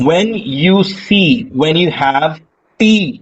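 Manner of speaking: very slow, stressing "you"; slow dictation. Shown as a demonstration. Teacher dictating the rule slowly for notes. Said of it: "लिख ले please".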